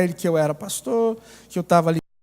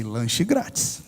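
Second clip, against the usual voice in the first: much lower, slow, softer greedy aside; thinking aloud; 10 semitones lower, 6 dB quieter, much slower than usual. Retold or imitated. Pastor secretly hopes for a free snack, slow low aside. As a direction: murmur it to yourself, savouring it. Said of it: "Eu pensei".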